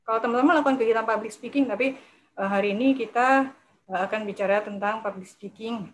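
rushed start, then indistinct mumbled demo; mumbling. Shown as a demonstration. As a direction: blur the words as a mumbling speaker. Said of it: "jangan kayak mumbling". (bergumam, tidak jelas)

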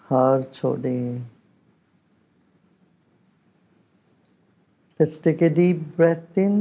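unhurried, measured meditation guiding; guided meditation. Real, not acted. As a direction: lead them calmly, with long pauses between instructions. Leads a breathing meditation.

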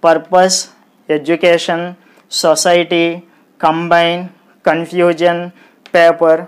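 పర్పస్ to పేపర్ read evenly, every syllable equal; each listed word said without any stressed syllable. Shown as a demonstration. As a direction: give పర్పస్ and each word level Telugu-style syllables. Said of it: "తెలుగులాగా పలికామనుకోండి".

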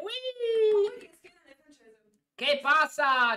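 high, hammy fake Spanish accent; hammed-up Spanish flirting. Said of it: "io parlo pure un po' di spagnolo".

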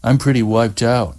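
lazy, yawning delivery; fake yawn. A narrator's reading. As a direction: say it through a put-on yawn. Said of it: "He threw in a yawn".

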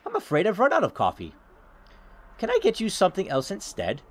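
lightly voiced apologetic granny; sweet old lady. Old tenant explains away the mess to caller, lightly voiced granny. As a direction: excuse yourself like a polite old hostess.

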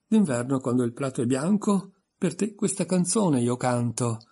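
pompous sing-song recital; lightly voiced pompous poet; poem recital. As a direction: declaim it like a proud reciter. Humpty recites his poem.

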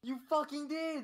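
high-pitched accusation; real squabbling insistence; insistent contradiction. Real, not acted. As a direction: fire it back with the pitch up high. Argument over who said what.

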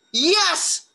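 high-pitched cheering monster; triumphant cheer. A narrator's reading. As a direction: cheer like you finally won. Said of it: "cheered Leonardo".

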